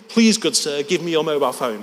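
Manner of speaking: understated mock courtesy; mock-polite translation. Translating the demand for the audience, mildly mock-polite. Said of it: "was what he was saying in essence".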